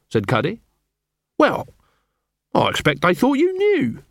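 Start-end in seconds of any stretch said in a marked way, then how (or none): 1.4-4.0 weak. A narrator's reading. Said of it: "said Nobby, weakly".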